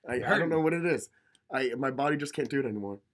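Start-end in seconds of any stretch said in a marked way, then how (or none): 0.1-1.1 blocked-nose sick voice; nasal voice. Real, not acted. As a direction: talk through a stuffy nose. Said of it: "if I sound nasally".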